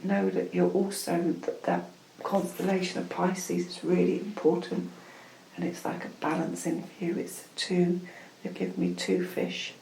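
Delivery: measured spiritual message in short, repeated phrases; unhurried ritual guidance with pauses; channelled guidance. Acted. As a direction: counsel them like a meditation guide.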